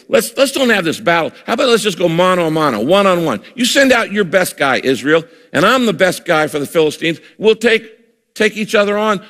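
hammed-up dare, mildly mocking; giant's challenge. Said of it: "he taunts and he shouts and he goes".

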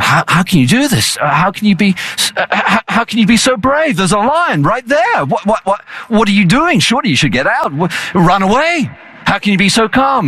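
a panicked spectator pleading with the tamer; alarmed onlooker. Retold or imitated.

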